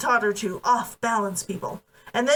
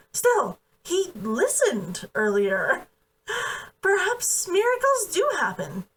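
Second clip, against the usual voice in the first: a hint of a wry young woman, laughing through it; wry, half-laughing answer in a lightly raised voice; lightly voiced amused young woman; 3 semitones higher than usual. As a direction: let small laughs break into her dry reply. Kazunoha amused, between laughs.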